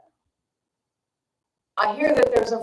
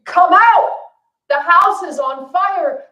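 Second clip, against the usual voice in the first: much higher and louder, slow desperate scream; parents screaming; 10 semitones higher, 10 dB louder, slower than usual. Retold or imitated. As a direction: scream it to save your kids. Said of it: "this time they're really screaming".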